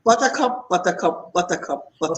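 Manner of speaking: "buttercup" repeated in an even rhythm; steady syllable drill. Shown as a demonstration. Host copies the therapist's test, steady repetition. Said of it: "we're gonna say it faster".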